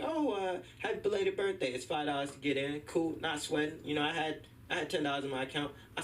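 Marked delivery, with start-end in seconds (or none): 0.0-2.8 high, friendly greeting; front desk lady. Retold or imitated. Doorwoman greets the birthday boy, pitched up. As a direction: chirp it like the doorwoman. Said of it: "She's like".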